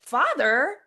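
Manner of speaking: prissy indignation. Retold or imitated. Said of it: "I'm very prissy".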